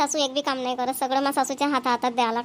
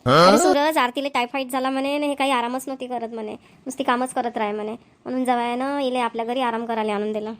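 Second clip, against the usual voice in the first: mother explaining. Acted. Mother explains daughter's illness to son.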